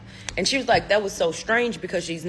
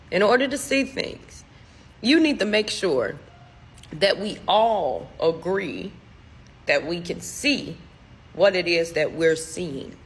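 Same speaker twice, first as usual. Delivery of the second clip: cryptic pronouncement. Retold or imitated. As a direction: measure out each phrase like a solemn riddle. Dad's cryptic advice, voiced slowly.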